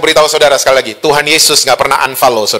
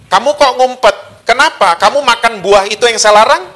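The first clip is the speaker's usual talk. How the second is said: higher-pitched probing questions; God questioning; 5 semitones higher than usual. Acted. God questioning Adam in Eden, higher probing voice. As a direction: question with a lightly raised voice. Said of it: "Karena di Taman Eden itu yang terjadi".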